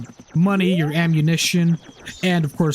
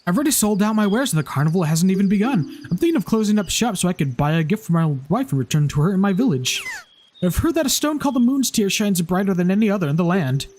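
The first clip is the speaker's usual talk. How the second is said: lightly higher, eager little merchant; Deku merchant voice; 4 semitones higher than usual. Acted. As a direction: read as a hopeful shopkeeper. Reads Deku Scrub merchant dialogue.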